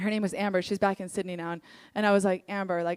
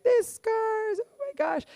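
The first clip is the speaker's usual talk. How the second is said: mock despair; 14 semitones higher, slower than usual. Mocking someone stuck in pain.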